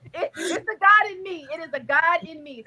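real laugh cracking into tears; overcome, laughing and crying; laughing through tears. Real, not acted. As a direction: laugh and tear up at once. Laughing-crying about her faith.

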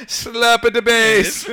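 silly high voice. Pretend. Joking after leprechaun remark.

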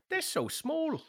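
very high mocking emu. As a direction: sneer at tiny humans in a squeaky emu voice. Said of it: "They're like".

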